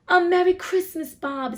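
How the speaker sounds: loud, high, hearty holiday greeting; earnest. A narrator's reading. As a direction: wish it wholeheartedly, loud and high. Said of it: "with an earnestness that could not be mistaken".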